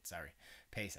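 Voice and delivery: ordinary talk, nothing marked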